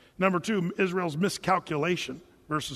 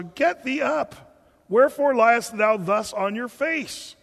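God rebuking; 4 semitones higher, 4 dB louder, slower than usual. Retold or imitated. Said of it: "The Lord said unto Joshua".

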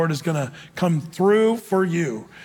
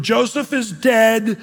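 lament; 3 semitones higher, much slower than usual. Acted. Jacob's lament read slowly.

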